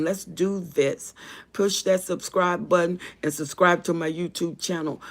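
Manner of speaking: rally the viewers to hit subscribe; eager subscribe plea. Real, not acted.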